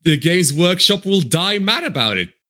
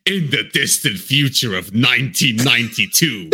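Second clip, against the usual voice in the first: grand narrator voice, laughing; hammy retro trailer narration; old sci-fi announcer; 3 semitones lower than usual. Retold or imitated. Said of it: "old sci-fi is going, like".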